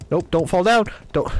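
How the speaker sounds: urgent yell, pitch up; alarmed yell. Real, not acted. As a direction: shout in alarm. Falling off a ledge in game.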